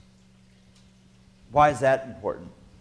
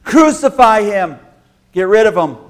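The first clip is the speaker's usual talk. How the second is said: loud, hard demand to kill; angry mob demand; 6 semitones higher, 9 dB louder than usual. Acted. The Friday crowd demanding Jesus' death, angry and loud.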